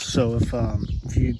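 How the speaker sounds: shallow breathing, a little winded. Real, not acted. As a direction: talk while still catching your breath. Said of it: "Sorry, I'm out of breath".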